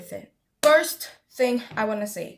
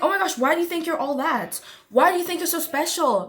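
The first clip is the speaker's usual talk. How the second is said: mock indignant, pitched higher; triggered critics; 4 semitones higher than usual. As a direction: imitate people put out by someone's confidence. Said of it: "They're gonna get triggered".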